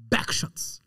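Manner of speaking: whispered, breathy backshots, imitating the kid. Retelling how the twelve-year-old said backshots, whispered. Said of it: "Jeg siger det den måde, han sagde det".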